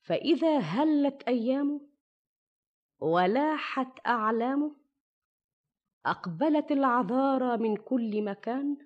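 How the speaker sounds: put-on measured old storyteller narration; arabic grandma folk tale. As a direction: tell it like a fireside tale. Shahrazad begins her tale over music.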